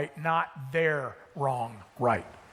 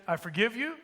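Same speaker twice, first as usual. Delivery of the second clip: higher, rising at the end; puzzled repeat; 4 semitones higher than usual. Acted. Spouse insisting they already answered, puzzled. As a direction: repeat it as if asking, pitch lifting.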